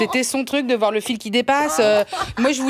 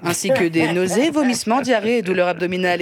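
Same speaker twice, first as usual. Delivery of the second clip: lower, rattled-off legal warning; disclaimer read; 3 semitones lower than usual. Pretend. Parody ad's legal disclaimer, rattled off. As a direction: read the risks like the end of a drug ad.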